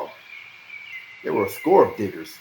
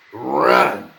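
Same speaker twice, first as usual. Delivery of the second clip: urging; 3 semitones higher, 9 dB louder than usual. A narrator's reading. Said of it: "Sir Bennis urged".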